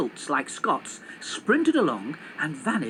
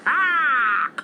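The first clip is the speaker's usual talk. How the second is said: loud, higher happy caw; delighted raven cry; 11 semitones higher, 8 dB louder than usual. Acted. Raven delighted as the hijackers drive off. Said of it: "said Mortimer, delighted".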